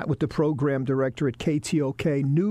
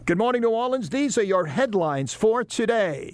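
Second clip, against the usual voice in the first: newscaster voiceover; 4 semitones higher than usual. Shown as a demonstration. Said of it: "do the voiceovers every morning".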